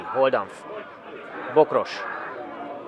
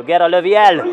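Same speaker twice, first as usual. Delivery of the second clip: rising loud call of the shot; excited hungarian sports commentary; 4 semitones higher, 6 dB louder than usual. Acted. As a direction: lift the voice on the shot. Shot called live. (izgatott felkiáltás)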